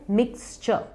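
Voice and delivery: मिक्सचर as "miks-chuh"; soft "chuh" ending on मिक्सचर, no r; correct pronunciation. Shown as a demonstration. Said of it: "correct word है". (मिक्सचर को "मिक्स-चअ" बोलें)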